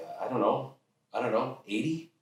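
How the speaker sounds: put-on unsure teenager. Teen guessing hours for dad, hesitant. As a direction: falter into a tentative question.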